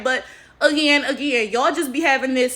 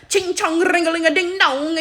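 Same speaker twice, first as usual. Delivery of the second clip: higher, sing-song caricature of an Asian accent; mocking fake Asian accent; 5 semitones higher than usual. Shown as a demonstration. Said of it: "you're just being racist".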